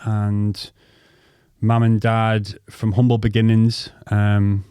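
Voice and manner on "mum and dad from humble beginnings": ordinary talk, nothing marked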